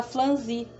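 "flanzi", R swapped for L; mispronounced franzir. Retold or imitated. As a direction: say "flanzi" with an L in place of the R. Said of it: "que ela fala flanzi".

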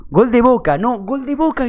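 high, loud mock fan yell; retold holler, pitched high; imitated goal shout. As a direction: yell it like a football fan correcting the cheer. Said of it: "gritó, ahí me lo dijo".

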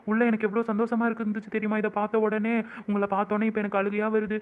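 laugh-cry through joyful tears. Acted. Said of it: "இது ஆனந்த கண்ணீருங்க". (ஆனந்தக் கண்ணீருடன்)

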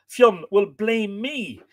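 high, loud, drawn-out wail; dramatic, dragged-out lament; despairing cry. A narrator's reading. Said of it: "he cried in despair".

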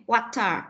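"Water" said as one linked word, the T running into A; linked T-A sound. Shown as a demonstration. Teacher showing pupils the link, "Water" with T joined to A. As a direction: join the T onto the A in "Water". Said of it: "có cái âm nối giữa âm T".

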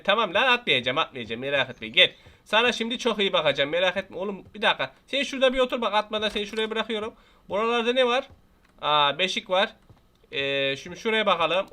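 ordinary delivery

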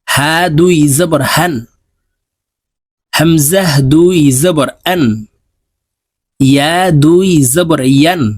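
slow sing-song letter drill, each line rising; tajweed recitation drill. Shown as a demonstration. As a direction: chant each letter for students to repeat. (ধীর সুরেলা তাজবিদ উচ্চারণ অনুশীলন)

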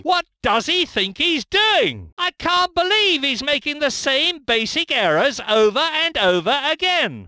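can't believe the same mistakes again; exasperated. Acted.

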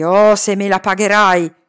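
enraged threat; furious threat. Acted. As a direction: swear revenge. Master threatens Iqbal.

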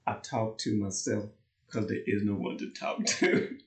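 lightly put-on self-talk voice; quoting a song's character. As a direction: imitate the man in the song. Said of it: "That's what he says in the song".

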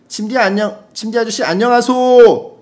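high, loud called-out hello; loud greeting. Acted. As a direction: belt out the listener's greeting, stretching the end. Reads out a listener's greeting.

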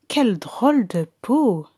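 murmure étonné; chuchoté. Acted. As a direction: souffler la remarque. Curious onlooker remarks. (un badaud chuchote, intrigué)

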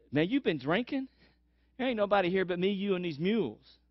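you must be joking, man; skeptical servant. Acted. Servant doubting Elisha's claim, skeptical. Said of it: "And the servant says".

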